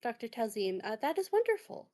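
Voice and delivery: pleased doctor, pitch lifting on the praise; lightly acted, delighted thanks; smiling thanks. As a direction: thank them with an audible smile. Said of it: "smiles at her and goes".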